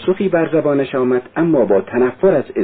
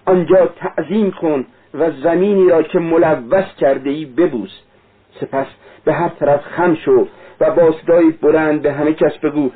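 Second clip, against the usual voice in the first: lightly voiced fervent young woman, higher; Sonya; 5 semitones higher than usual. Sonya urging Raskolnikov to confess, lightly fervent. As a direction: urge him with fervent conviction.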